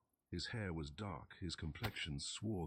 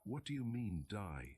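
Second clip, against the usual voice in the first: testy snarl; 4 semitones higher than usual. Acted. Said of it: "snarled Rigetti testily".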